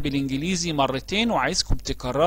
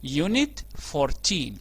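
slow model phrase; much slower than usual. Shown as a demonstration. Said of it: "ده رقم الوحدة بتاعتنا Unit fourteen".

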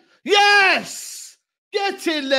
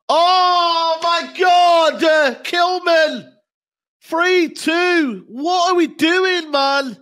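louder, exasperated cry; dismayed shout; 4 dB louder, much slower than usual. Real, not acted. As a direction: shout in disbelief at the goal conceded. Fan reacting to conceded goal.

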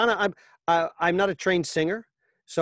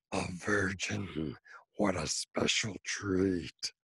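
low, slow monster growl; slow, low menacing monster; 9 semitones lower, 8 dB quieter, much slower than usual. Retold or imitated. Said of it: "monster voices".

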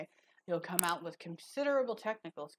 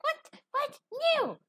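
high, scoffing student; dismissive student voice; 6 dB louder than usual. Retold or imitated. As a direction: brush off the reading like a brat. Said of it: "They're like".

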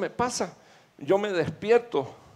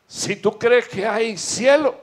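louder and higher, preaching at full force; fiery preaching; 6 semitones higher, 7 dB louder than usual. Acted. Predicador a la congregación sobre el cielo, a toda voz. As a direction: build to a roaring climax about heaven.

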